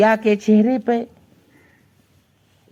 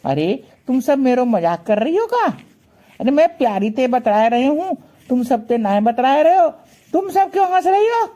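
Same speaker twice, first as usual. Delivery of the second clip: Krishna complaining; 3 semitones higher than usual. Acted. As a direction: get more and more indignant until it squeaks up. Krishna annoyed at laughing friends.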